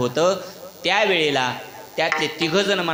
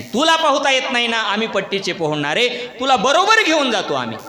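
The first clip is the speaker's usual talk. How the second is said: boastful reassurance; 6 semitones higher, 5 dB louder than usual. Retold or imitated. Friends boasting they swim well.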